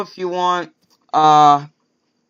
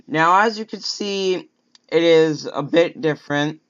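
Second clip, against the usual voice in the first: just got braces off. Real, not acted. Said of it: "Sorry if I sound a bit weird, I just got my braces off".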